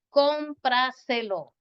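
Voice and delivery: cómpraselo slowed right down, stressed on CÓM; stress on first syllable. Shown as a demonstration. Teacher demonstrates the accent's place, cómpraselo slow with CÓM stressed. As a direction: stretch out cómpraselo, leaning on CÓM. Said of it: "después de la antepenúltima".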